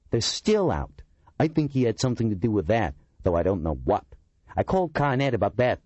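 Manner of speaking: a complaining oddball telling his grievance; aggrieved Kurtzima. A narrator's reading. Kurtzima complains about the streetlights.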